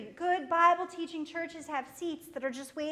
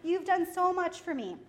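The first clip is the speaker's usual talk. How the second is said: joyful thanks; 3 semitones higher, 3 dB louder than usual. Pretend. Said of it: "it's like".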